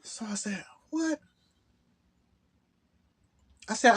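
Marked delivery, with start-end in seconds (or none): 0.9-1.2 breathless whispered what; stunned whisper. Retold or imitated. Hearing Phil missed the interview, shocked whisper. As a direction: barely get the word out in shock.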